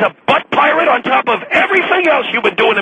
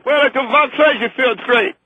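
hammed-up phony Chinese accent; fake Chinese accent. Chinese delegate greeting the radio host, fake Chinese accent. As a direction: put on a bad Chinese guest voice. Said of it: "and that Chinaman voice".

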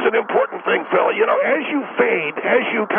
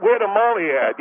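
imitating a pop singer. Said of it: "she got like".

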